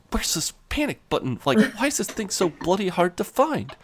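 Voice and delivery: imitating someone panicking; mock panic. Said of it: "he's so panicked he can't even find".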